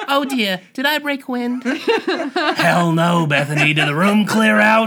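put-on high, loud old aunt voice, laughing; hammed-up dotty old aunt, squeaky; Aunt Bethany. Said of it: "Aunt Bethany".

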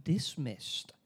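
slow, savoured mock villain quip; villain one-liner. Recapping the killer's line to a friend, slow and smug. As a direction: drag it out like a smug slasher.

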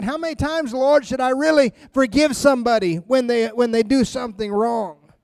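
fed up, as if you've been wronged once too often; exasperated Peter. Retold or imitated. Peter, fed up, asking the Lord how much to forgive, with mock exasperation. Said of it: "he gets mad".

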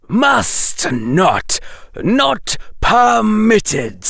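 high, slow serpent hiss; a stern snake, drawn out. Acted. Snake voice forbids.

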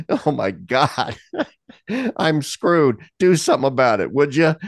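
hammed-up desperate praying through a laugh; desperate prayer. Recounting his prayer of desperation to God, mock-desperate. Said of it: "My prayer was one of desperation".

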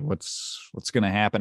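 a soft unvoiced worried question; hushed worried whisper. Listener nervous near the special's end, whispering. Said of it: "the special was a little like".

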